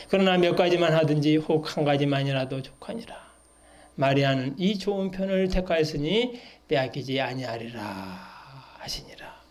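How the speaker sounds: even verse reading, fading at the close; scripture reading. Acted. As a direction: recite the verses evenly, letting the last words drop. Reads the verses again.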